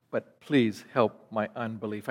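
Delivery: soft, low pleading prayer; praying. Retold or imitated. Father asking Jesus for help with unbelief, soft prayer. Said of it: "And then he prays".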